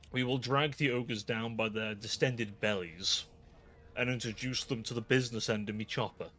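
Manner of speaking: lightly voiced Cockney orc; half-convincing orc war threat; attempted orc voice. Streamer trying to talk like an orc, mild orc voice. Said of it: "me trying to talk like an orc".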